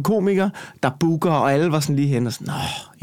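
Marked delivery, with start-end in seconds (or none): 2.5-3.0 soft, breath-only "oh"; exhaled mock groan; mock sigh. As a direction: imitate a sympathetic sigh. Other comics' weary reaction, acted.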